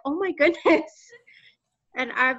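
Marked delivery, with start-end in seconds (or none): 0.0-0.9 higher, light astonished gasp; a touch of amazement; mild retold surprise. Speaker recalls reacting to the recruiter's ask, mildly surprised. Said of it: "And I was like".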